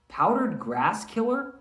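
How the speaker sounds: high, slow disbelieving question; surprised manager. Acted. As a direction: ask it like you can't believe it. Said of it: "kinda like what I just did".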